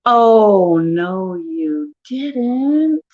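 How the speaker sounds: hammed-up offended disbelief; mock outrage. Wife scolding husband for his remark, mock outraged.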